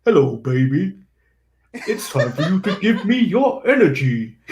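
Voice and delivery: lightly put-on big story voice. Wrestler telling a baby a bedtime story, mock storyteller. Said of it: "decides to go in a big story voice".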